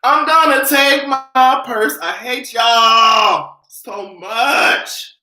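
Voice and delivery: slow, stretched-out wail through laughter; laugh-crying. Real, not acted. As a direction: try to sing but break down laughing. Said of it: "now I'm gonna start crying".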